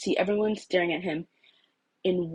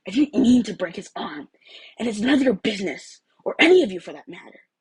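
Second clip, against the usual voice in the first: harsh defensive; 3 semitones higher, 6 dB louder than usual. Acted. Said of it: "the harsh tone coming from the blonde".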